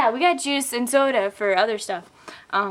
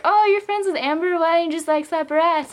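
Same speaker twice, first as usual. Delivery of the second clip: higher mocking drunk guy; 6 semitones higher than usual. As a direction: play the pushy drunk. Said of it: "They're like".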